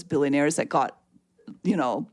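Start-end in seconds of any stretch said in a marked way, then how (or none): 1.6-2.1 starts steady, then cracks up on the last words; breaking into laughter. Real, not acted. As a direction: try to get the sentence out as laughter takes over. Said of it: "She says while".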